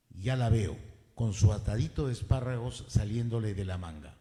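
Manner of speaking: measured poetry reading with falling line ends; poem recitation. Acted. Mayor reads the poet's own poem in homage to her, poem recitation. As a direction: recite it line by line, pausing after each.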